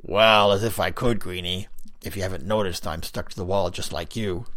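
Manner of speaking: a loud, pushy stone face calling out; a loud, pushy stone face pestering a smoker; gruff Big Lips. Acted. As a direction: needle the stranger for his smoke, loudly. Big Lips answers Greenie.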